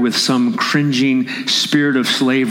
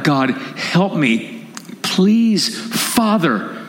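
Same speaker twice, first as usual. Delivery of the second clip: crying out to God; 4 semitones higher, much slower than usual. Acted. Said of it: "you cry out".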